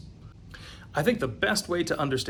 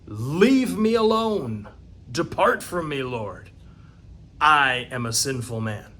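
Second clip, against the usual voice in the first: Peter pleading; slower than usual. Acted. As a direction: beg him to go away, in awe. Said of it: "and he says".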